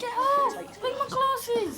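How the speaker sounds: high-pitched cry of protest; struggling protest. Acted. Boy wanting his glasses back, protesting. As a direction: call out against being grabbed.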